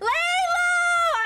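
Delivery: shrill, very high, long, stretched-out yell. Spotting someone, the speaker yells their name. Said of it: "I'm yelling".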